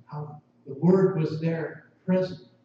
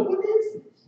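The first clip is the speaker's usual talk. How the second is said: puzzled guest; 3 dB louder than usual. Retold or imitated. Guest asks about casserole.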